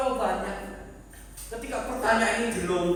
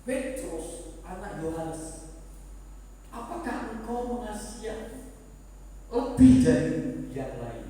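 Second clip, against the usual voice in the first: tender Jesus. Acted. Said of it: "apa yang ditanyakan, eh, Tuhan Yesus kepada Petrus".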